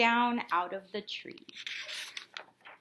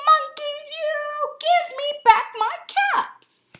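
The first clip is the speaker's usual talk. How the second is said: higher, louder, slow sing-song scolding; angrier peddler; 14 semitones higher, 5 dB louder than usual. A narrator's reading. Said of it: "This made the peddler angry".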